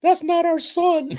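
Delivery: high-pitched quote broken by laughter; laughing quote. Retold or imitated. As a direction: laugh through the line. Retelling a shocked parent's line.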